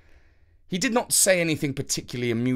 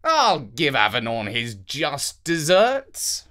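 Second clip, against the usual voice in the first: slow, menacing king's musing; scheming king; slower than usual. Acted. King thinking of jailing Avenant, slow and menacing. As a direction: plot revenge slowly to yourself. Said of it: "The king thought to himself".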